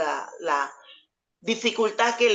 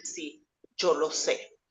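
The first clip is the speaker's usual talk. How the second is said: crying; 3 semitones lower, 5 dB quieter, slower than usual. Retold or imitated. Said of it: "ella empezó a llorar".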